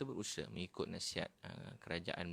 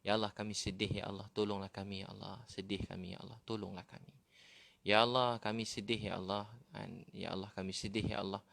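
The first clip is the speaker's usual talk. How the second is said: pleading prayer. Pretend. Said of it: "Nangis ke Allah".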